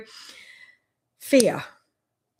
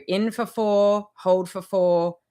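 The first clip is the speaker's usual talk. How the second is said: slow breathing count; 2 semitones lower, slower than usual. Shown as a demonstration. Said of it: "do the box breath".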